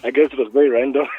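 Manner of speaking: giggling through the words; embarrassed laugh as the words slip away. Real, not acted. Guest laughing at forgetting his own EP title.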